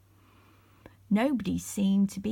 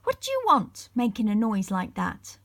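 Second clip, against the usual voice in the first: a sharp cranky pixie voice, raised and loud; cross and sharp; 4 dB louder than usual. Acted. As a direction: bark it out as the cross shopkeeper. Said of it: "He looked very cross and spoke sharply".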